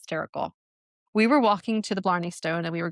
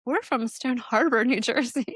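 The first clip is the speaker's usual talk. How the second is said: laughing; 5 semitones higher than usual. Retold or imitated. Retelling their surprising answer.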